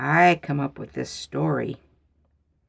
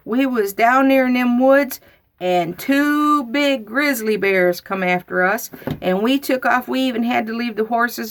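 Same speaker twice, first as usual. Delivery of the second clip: put-on much higher, loud, gushing child; excited tall tale; 7 semitones higher, 5 dB louder than usual. Girl to uncle, high excited excuse. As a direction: spill the bear story breathlessly.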